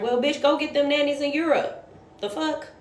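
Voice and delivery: high-pitched, exasperated clapback; sassy comeback to an absent boss; indignant retort. Retold or imitated. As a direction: fire back in disbelief, pitch jumping up. Imagined retort to the dad.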